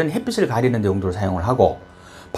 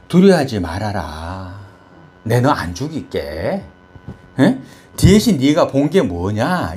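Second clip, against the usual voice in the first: slow, measured royal reassurance; lightly voiced king; 4 semitones lower, slower than usual. King Saul promises not to kill the medium, slow lightly acted reassurance. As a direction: draw the words out with calm authority, lightly acted.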